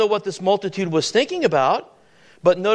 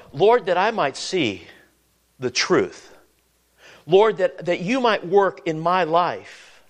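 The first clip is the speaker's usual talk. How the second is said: earnest prayer. Acted. Voices a model prayer.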